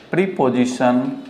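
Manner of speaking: प्रीपोजिशन with a long "pree-po", said slowly; wrong "preposition". Shown as a demonstration. Teacher slowly shows the wrong "pree-po-zi-shun". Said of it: "तो ये गलत हो जाता है".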